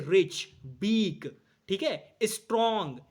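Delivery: रिच, बीक, स्ट्रॉन्ग each said as one unbroken syllable. Shown as a demonstration. Teacher showing students one-syllable words, रिच, बीक, स्ट्रॉन्ग each said unbroken. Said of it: "आप एक ही बार में बोल दोगे".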